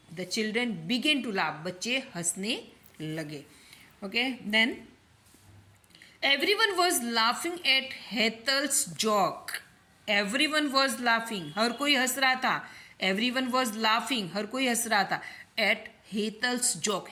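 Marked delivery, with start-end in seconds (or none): 0.1-1.6 slow, deliberate teacher dictation; slow example reading. Shown as a demonstration. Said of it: "corrected example reread". 6.2-11.4 slow, deliberate teacher dictation; slow example reading. Shown as a demonstration. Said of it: "teacher reads example sentence". 13.0-14.3 slow, deliberate teacher dictation; slow example reading. Shown as a demonstration. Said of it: "teacher repeats phrase".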